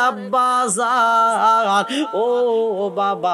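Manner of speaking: slow, stretched chanted plaint; tearful call. Acted. Weeping widow calls to her father-in-law, tearful chant. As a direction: call out mournfully, letting the vowels trail. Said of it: "কান্দে আর কয়".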